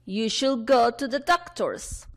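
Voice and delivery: slow, deliberate classroom model sentence; unhurried teacher reading; read-along model. Shown as a demonstration. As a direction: stretch each word so learners can repeat. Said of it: "una última vez".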